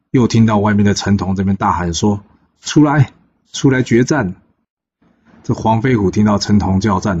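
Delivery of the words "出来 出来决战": battle challenge shout. Acted. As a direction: bellow the challenge across the field. Chen Tong shouts a challenge outside.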